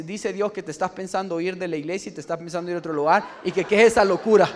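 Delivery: rising to a loud, scolding finish; prophet's rebuke. Retold or imitated. Prophet Juan rebuking Francisco for leaving, building loud.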